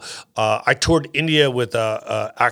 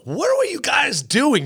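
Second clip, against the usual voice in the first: puzzled questioning; 12 semitones higher than usual. Retold or imitated. Asking soldiers why they cheered.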